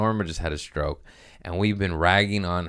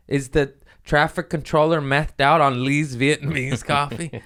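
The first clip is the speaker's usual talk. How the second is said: mock angry rant; 5 semitones higher than usual. Ranting at the pilot.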